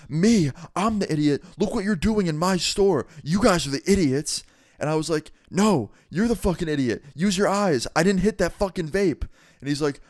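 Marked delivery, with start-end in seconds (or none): 0.1-4.4 high-pitched mock outrage; indignant manager. Manager throws insult back, acted quarrel. 5.5-9.3 high-pitched re-enacted outrage; indignant retort. Heated acted quarrel with manager.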